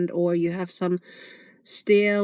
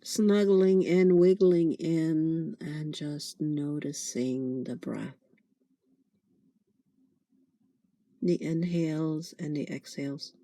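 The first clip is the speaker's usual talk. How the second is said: guided meditation. Acted. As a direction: gently guide them into noticing the breath.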